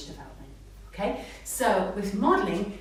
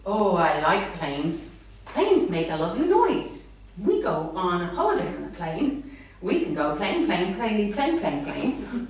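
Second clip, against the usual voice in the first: enthusiastic modelling; 3 dB louder than usual. Shown as a demonstration. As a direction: pile on delight to sell the word plane. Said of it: "And you go".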